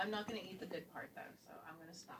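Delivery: chewing while speaking; mouth full. Real, not acted. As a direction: talk through a mouthful. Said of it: "I'm eating this now".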